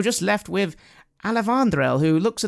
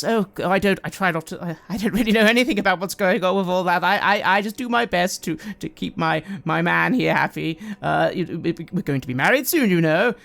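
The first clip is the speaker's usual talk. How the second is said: hesitant, chatty deflection; lightly voiced fiancée; 2 semitones higher than usual. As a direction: politely plead ignorance, tripping over the words. GM voices Emmanuel.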